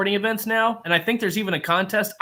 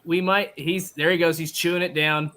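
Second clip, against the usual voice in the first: mock sportscaster call; play-by-play. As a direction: narrate it live like a broadcast. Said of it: "Play by play, live".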